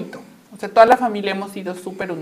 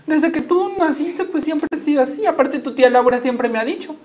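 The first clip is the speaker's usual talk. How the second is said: mother voice; 6 semitones higher than usual. Retold or imitated. Mother explains, voiced higher.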